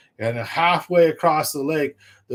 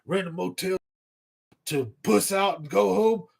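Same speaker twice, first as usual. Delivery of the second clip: higher put-on voice scolding himself; a mock tough buddy telling him off; self pep talk; 6 semitones higher than usual. To himself at the launch, higher mock scolding voice. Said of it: "I go".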